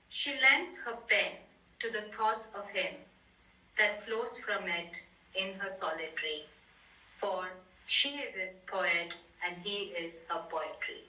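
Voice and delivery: measured reading, pausing between phrases; poem reading. Acted. Reading out a small poem from The Memories, measured poem reading. Reads a short poem aloud.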